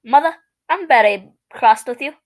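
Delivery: mock British toddler; hammed-up British scolding; strong British accent. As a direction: put on a British accent for the complaint. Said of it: "in a strong British accent".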